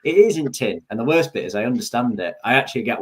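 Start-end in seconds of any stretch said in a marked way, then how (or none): 0.0-0.8 broad Yorkshire, "isn't in tin" run together; higher-pitched Yorkshire tongue-twister; Yorkshire meme. Retold or imitated. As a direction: chant it in thick Yorkshire dialect. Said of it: "the latest Yorkshire meme going round".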